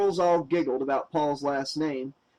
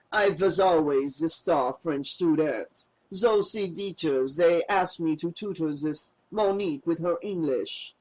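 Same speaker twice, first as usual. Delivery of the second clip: bad French accent. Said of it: "he slipped into a heavy and very bad French accent".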